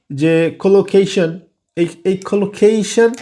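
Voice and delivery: slow "collocation" with weight on an aspirated KAY; stressed aspirated syllable. Shown as a demonstration. Teacher pointing out the stressed syllable, "collocation" with breathy-released K in KAY. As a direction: punch and lengthen KAY in "collocation". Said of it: "সিলেবলটা হচ্ছে গিয়ে stress syllable".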